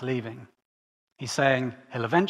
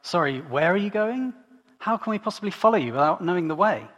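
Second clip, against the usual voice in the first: confused disbelief; 5 semitones higher, 3 dB louder than usual. Retold or imitated. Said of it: "So he's like".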